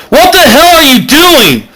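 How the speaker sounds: high yelled question; shouting Bilbo. Acted. Bilbo yells at the chanting Mac, a high startled yell. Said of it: "Bilbo yells".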